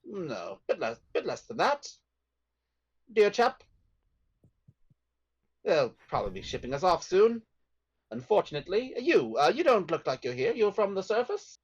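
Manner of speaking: put-on chatty British-accented prisoner. Fellow prisoner chatting with a newcomer from the surface, British accent. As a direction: muse aloud in a British accent. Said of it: "British accent".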